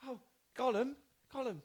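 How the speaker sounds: Gollum impression. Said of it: "that was my Gollum impression".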